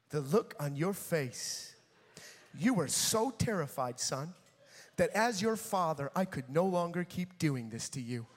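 lightly voiced earnest father; solemn dad. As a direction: address your son gravely. Dad's solemn speech to son.

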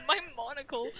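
laughing. Pretend. Joking British toff line.

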